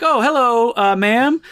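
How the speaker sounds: polite man imitated with an American accent. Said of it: "At first, he has an American accent".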